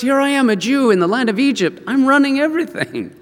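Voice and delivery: high-pitched excited marveling; amazed boast. Acted. Joseph telling his brothers of his rise, amazed excitement.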